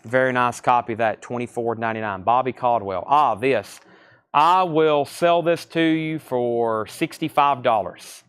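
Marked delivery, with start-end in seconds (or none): 4.3-8.2 slow, deliberate counteroffer to a bidder; firm counteroffer. Shown as a demonstration. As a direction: spell out the price slowly, like a firm counter. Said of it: "That's my counter".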